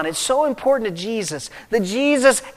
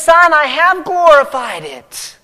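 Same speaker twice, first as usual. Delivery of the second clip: higher and louder, a proud ringing declaration; booming voice of God; 8 semitones higher, 5 dB louder than usual. Retold or imitated. God calling down from heaven to his Son, booming. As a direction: proclaim it like a father who can't hold back. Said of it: "God just can't hold back anymore".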